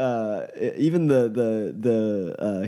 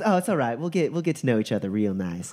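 amused Duchess; 2 semitones higher, faster than usual. Acted. Duchess pinches the nervous mage's cheek, amused and reassuring. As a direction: soothe a flustered newcomer, lightly amused. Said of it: "slightly amused by your obvious nervousness".

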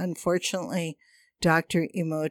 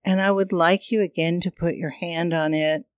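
airy breathy mystical healer. Acted. Guides hand on chakra, breathing.

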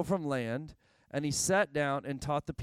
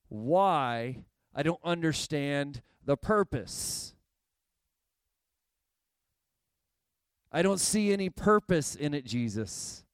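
exasperated fisherman pleading, louder; frustrated complaint; 4 dB louder than usual. Acted. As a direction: throw up your hands at Jesus, tired and fed up. Simon's frustrated complaint voiced.

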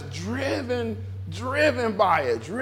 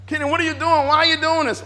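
higher, insistent questioning of oneself; questioning inner voice; 7 semitones higher, 3 dB louder, faster than usual. Acted. Preacher voicing his self challenging him, higher insistent questioning. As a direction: take yourself to task, pitched up.

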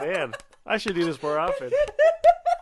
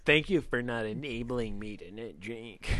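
sarcastic; 5 semitones lower, 5 dB quieter than usual. Retold or imitated. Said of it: "That sounded sarcastic".

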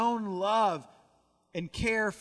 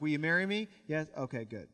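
flat business deal; 4 semitones lower, faster than usual. Retold or imitated. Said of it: "No, it wasn't like that".

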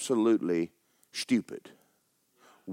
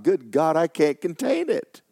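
louder, raised cry of delight; overflowing joy; 5 semitones higher, 4 dB louder than usual. Retold or imitated. Preacher reliving church joy, excited cry. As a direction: burst out like you can't hold it in.

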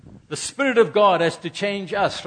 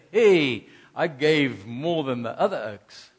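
mock boast; 4 semitones lower than usual. Mocking a boastful giver.

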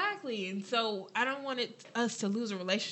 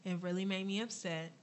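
softer, measured, reassuring; calm, gentle talk; 5 dB quieter than usual. Retold or imitated. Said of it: "I'm calm now".

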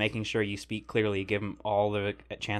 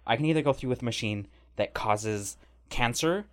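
lightly imitated flamboyant, slightly feminine man; a hint of flamboyance, objecting point by point. Passenger explaining his two options to the cop, lightly flamboyant. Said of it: "He's a bit flamboyant, a little feminine".

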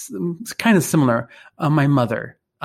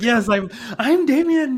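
much higher, louder, laughing joyful declaration; fired up; 10 semitones higher, 5 dB louder than usual. Real, not acted. A fired-up man proclaiming his own name to his cohost, laughing. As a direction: burst out with laughing joy. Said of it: "I'm just all fired up in the inside too".

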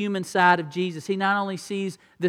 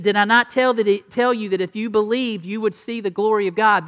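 firm Jesus; 3 semitones higher, 5 dB louder than usual. Retold or imitated. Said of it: "And Jesus said".

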